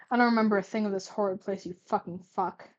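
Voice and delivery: fast, tight, forced through the teeth; rapid seething through clenched jaw; through gritted teeth. Acted. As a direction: grit the words out. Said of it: "Gladion gritted his teeth".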